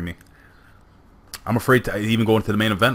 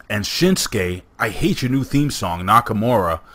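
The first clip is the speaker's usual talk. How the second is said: announcer voice; 3 semitones higher, slower than usual. Acted. Ring announcer introducing the match.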